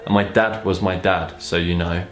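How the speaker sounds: even, measured read-aloud; narrating a story aloud; story narration. A narrator's reading.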